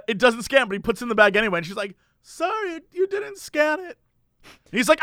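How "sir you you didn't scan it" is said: high, insistent cashier voice; lightly voiced pushy store clerk; older cashier lady. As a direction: pitch it up as the fussy cashier. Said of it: "has a German accent".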